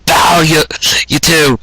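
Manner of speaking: a light, cheery call from afar; cheering shout. Acted. Luna on the moon cheers the two lovers on, mild cheery shout. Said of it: "watching the two and cheering them on, going".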